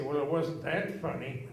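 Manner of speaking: chuckled through the line; amused denial; laughing. Retold or imitated. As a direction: try to stay stern but laugh. Dad says it laughing.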